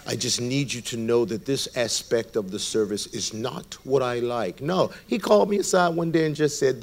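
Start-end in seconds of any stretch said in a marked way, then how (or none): 0.0-4.6 low, soft, solemn address; a hint of gentle, formal divinity; lofty fatherly God. God gently correcting his son about a service, lofty fatherly tone. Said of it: "he could have come to me with this".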